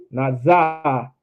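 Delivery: "za" with too much ah; wrong za. Shown as a demonstration. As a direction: overdo the ah in "za".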